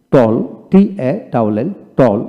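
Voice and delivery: টল said with an open "aw" vowel; teacher modelling American টল; American pronunciation demo. Shown as a demonstration. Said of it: "প্রথমটি American উচ্চারণ".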